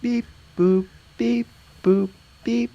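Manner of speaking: beeping like a robot; robot beeps. Pretend. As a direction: beep boop robot voice. Robot human music imitation.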